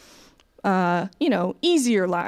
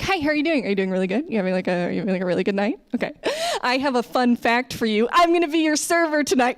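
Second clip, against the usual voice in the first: gushing, over-eager American waitress act; mock customer-service pep, building in pitch and volume; American server; 3 semitones higher, faster than usual. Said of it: "if I was serving, like, you in America".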